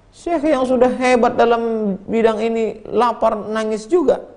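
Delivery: incredulous. Acted. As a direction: stretch out the disbelief. Student in disbelief.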